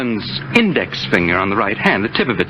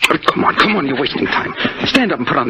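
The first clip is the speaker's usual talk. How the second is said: impatient urging; 6 semitones higher, faster than usual. Acted. Killer hurrying captive.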